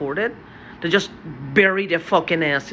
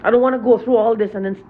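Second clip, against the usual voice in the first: repeats it louder and quicker, heated; angry, faster; 4 semitones higher, 4 dB louder, faster than usual. Real, not acted. Venting to viewers about his tormentors, angry and quick. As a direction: pushes the words out fast in anger. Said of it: "Sorry I'm so angry".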